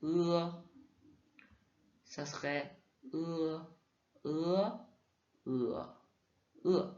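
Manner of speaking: "E" through all four tones. Shown as a demonstration. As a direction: run "E" through flat, rising, dipping, falling. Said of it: "Et pour le E".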